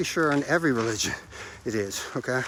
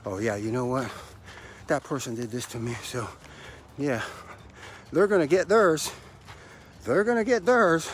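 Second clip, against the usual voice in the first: resentful inner voice. Retold or imitated. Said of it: "That right there is unforgiveness".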